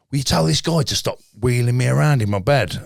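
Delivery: a mild complaint from the man in the next bed; plain retelling with a touch of the patient's voice; quoting the confused patient. Retold or imitated. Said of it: "he went".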